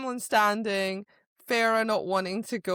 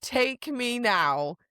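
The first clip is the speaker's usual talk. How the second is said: swooning; 3 semitones higher, slower than usual. Retold or imitated. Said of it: "I'm like".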